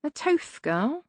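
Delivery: slow, rough servant voice; grumbling hunchback servant; Igor voice. A narrator's reading.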